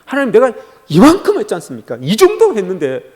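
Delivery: boasting to God. Acted. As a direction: remind God how much you have done. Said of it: "하나님 앞에 올려드리는 것은".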